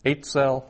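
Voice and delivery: "eitzel" stressed on "ei"; stress on first syllable. Shown as a demonstration. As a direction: lean on the opening syllable of "eitzel". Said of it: "accent under the, for the first syllable".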